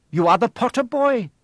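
put-on a noble creature naming the boy; centaur voice. A narrator's reading. Centaur recognises the boy, lightly voiced solemn creature. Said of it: "he said".

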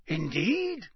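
high, hasty pleading; hurried, nervous. A narrator's reading. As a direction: rush to explain. Karkaroff surprised.

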